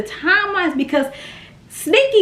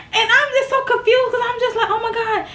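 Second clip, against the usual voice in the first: laughing confusion; 7 semitones higher, faster than usual. Real, not acted.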